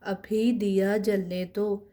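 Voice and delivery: each sentence read slowly and evenly, twice; slow model reading. Shown as a demonstration. Teacher reads the primer sentences slowly for students. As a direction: read it out for the class to copy. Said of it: "अब ये जुमला बना हुआ है".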